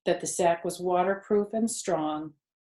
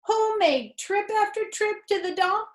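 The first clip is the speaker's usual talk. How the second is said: sarcastic rat; 3 dB louder than usual. Acted. Templeton the rat sulking at Wilbur, sarcastic and self-pitying. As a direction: lay the sarcasm on thick.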